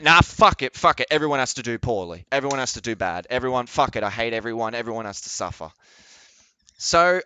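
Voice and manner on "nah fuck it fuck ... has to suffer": petulant mock voice. Mocking opponents as spoiled babies, petulant whine. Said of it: "they're like".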